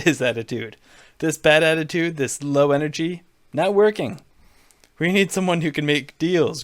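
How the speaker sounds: Trump voice. Acted. Donald needling Jeb on stage, lightly brash Trump voice. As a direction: bluster at him like a showman.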